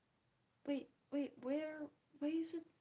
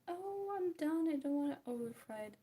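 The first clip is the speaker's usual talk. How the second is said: mock declaration; 5 semitones higher, 6 dB louder than usual. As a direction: draw it out high and loud, imitating yourself. Quoting own false promise to stop.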